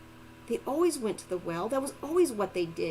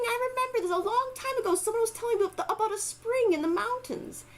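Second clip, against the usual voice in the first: put-on old elder voice; 9 semitones higher than usual. Elder recalls a spring.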